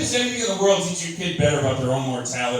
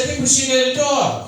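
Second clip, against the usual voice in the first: wife voice pitched up; sweet suggestion from the wife; high wife voice; 9 semitones higher than usual. Retold or imitated. Wife suggesting a dog, high wife voice. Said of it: "She said".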